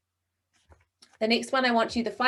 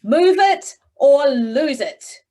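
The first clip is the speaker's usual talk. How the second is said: slow, much louder, forceful delivery; with conviction; 4 semitones higher, 9 dB louder, much slower than usual. Shown as a demonstration. Coach showing the class a forceful, urgent command. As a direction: say it like life and death depends on it. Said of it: "with conviction".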